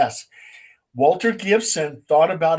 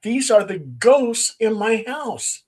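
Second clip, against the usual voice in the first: higher, slow and amazed, a mild mock shock; retold shocked gasp; 5 semitones higher, slower than usual. Wife recognizing the ghosts in the photo, slow mock astonishment. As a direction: let the realization sink in slowly, lightly acted. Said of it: "and she goes".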